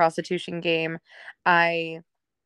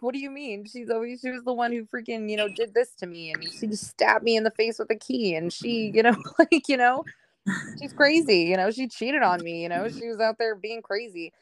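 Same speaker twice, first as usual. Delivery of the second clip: higher-pitched catty gossiping voice; mock gossiper; 4 semitones higher than usual. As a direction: play the people badmouthing her. Mocking gossip about her past.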